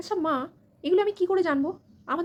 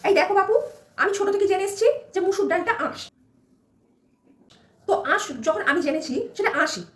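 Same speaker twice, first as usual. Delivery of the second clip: stubborn mother-in-law; 4 semitones higher than usual. Acted. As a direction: shoo the bride out of the kitchen.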